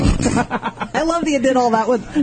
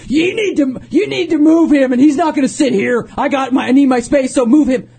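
demanding boss; 6 semitones higher, 3 dB louder than usual. Retold or imitated. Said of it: "he was like".

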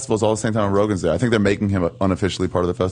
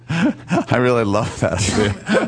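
laughing; 2 semitones higher, much slower than usual. Real, not acted. Laughing at pony joke.

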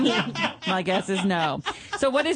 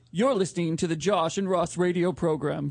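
mock official announcement; 6 semitones lower than usual. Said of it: "could you be the voice of the Josh and Ross show".

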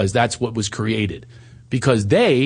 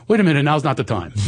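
mock panic; 4 semitones higher, faster than usual.

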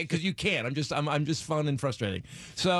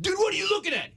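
put-on friendly drunk. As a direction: play the overly friendly drunk. Imitating himself as drunk.

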